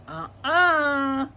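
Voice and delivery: loud, high defiant no; defiant refusal. A narrator's reading. Girl stands up to hungry tiger, loudly defiant.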